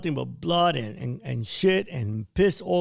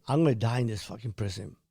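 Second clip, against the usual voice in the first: tearful vow; 3 semitones lower, 3 dB quieter than usual. Retold or imitated. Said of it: "I started weeping in my state of subconscious".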